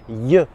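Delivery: "Y" as the glide sound ye; LL comme Y. Shown as a demonstration. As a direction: make "Y" a short y glide, as in yes. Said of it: "comme un Y". (« Y » prononcé « ye »)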